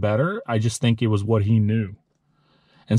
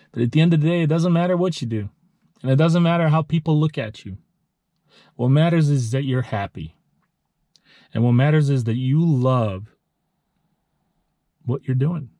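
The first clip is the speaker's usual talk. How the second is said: emotional; 3 semitones higher than usual. Real, not acted. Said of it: "sorry for getting too emotional".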